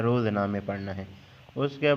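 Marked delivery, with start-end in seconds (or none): 0.0-0.6 रोज़नामे with an "u" vowel on the ra, "ruzname"; quiet teacher model of रोज़नामे with "ru" at the start; Persian pronunciation. Shown as a demonstration. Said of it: "रा पर ज़मा पढ़ना है".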